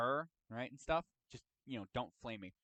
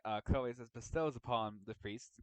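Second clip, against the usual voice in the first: mouth full; 4 semitones lower than usual. Real, not acted. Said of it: "Sorry, I have something in my mouth".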